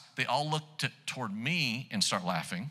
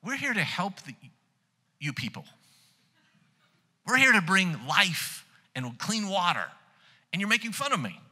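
indignant inner thought; 7 semitones higher, 3 dB louder than usual. Retold or imitated. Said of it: "And I'm thinking".

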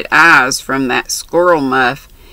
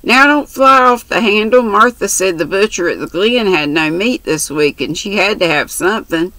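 lightly voiced brash country girl; chatty, bold young girl; 4 semitones higher than usual. Mary's dialogue voiced.

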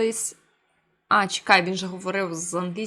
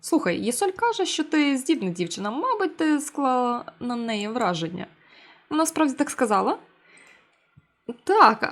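friendly teacher voice; 2 semitones higher than usual. Acted.

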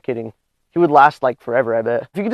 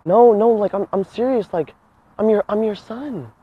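higher, lightly pleading voice; pretend earnest son; 5 semitones higher, slower than usual. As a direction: insist like a kid claiming his father. Prankster insists he is the son.

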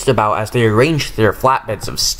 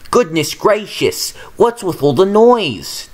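surprised cry; 6 semitones higher than usual. A narrator's reading. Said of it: "Duck cried".

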